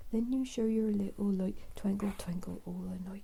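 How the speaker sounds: whispered rhyme in a Norfolk farmer accent. Shown as a demonstration. Twinkle Twinkle redone for Willow in a Norfolk farmer accent. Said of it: "I love singing things in a Norfolk accent, farmer accent".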